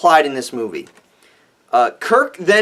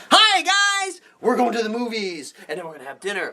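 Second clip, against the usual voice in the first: lightly voiced showy greeter; mock jazz-hands greeting; 2 semitones higher, 5 dB quieter than usual. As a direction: parody a theatrical hello. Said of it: "it's like".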